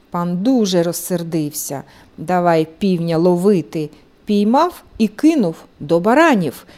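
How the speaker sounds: usual speaking voice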